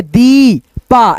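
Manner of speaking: दी पा slowly, with a long "dee", then "paa"; drawn-out syllables. Shown as a demonstration. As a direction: sound out दी, stretched, then पा. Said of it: "ऐसे करके".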